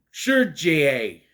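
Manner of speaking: "Sergei" said loudly as "sher-jay"; guessed pronunciation. Shown as a demonstration. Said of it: "tried to figure out how to pronounce".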